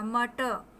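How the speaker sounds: "मटर" ending on an open uh, no r; silent final r. Shown as a demonstration. Teacher showing the r stays in the mouth, ending unsounded. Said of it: "रा आपके मुंह में ही रह जाएगा".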